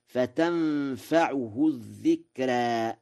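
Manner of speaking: فتنفعه with a u on the ع; slow reading of فتنفعه with a clear u; Warsh reading. Shown as a demonstration. Teacher showing Warsh's فتنفعه. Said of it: "بضم العين".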